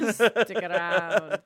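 put-on slow, mumbled, half-laughing Scottish accent; lightly Scottish action-hero drawl; Scottish-sounding marbles mouth. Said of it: "That just sounded Scottish".

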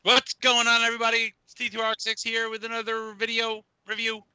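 loud, pumped channel intro read; lightly voiced hyped video intro; YouTuber intro impression. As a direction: play the host opening his video. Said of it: "that person you just heard right there".

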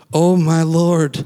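drawn-out, lightly voiced whine of Moses; a hint of a pleading Moses, slow; mock Moses lament. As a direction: stretch it out slowly like a reluctant Moses. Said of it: "whatever way he said it".

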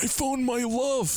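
high, slow mock crooning. Guy voiced in a funny quote.

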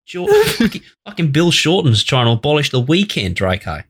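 an over-the-top Australian rant that starts high; Australian accent. Retold or imitated. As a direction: rant like a caricature Aussie bloke. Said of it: "he goes really Australian".

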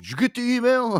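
high nosy coworker voice; mock coworker voice. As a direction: needle him about the email. Coworker quoted mockingly.

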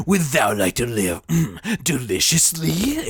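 slow Yoda-like croak; goofy Satan voice. Shown as a demonstration. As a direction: play Satan as goofy, not scary. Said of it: "at first I'd be like".

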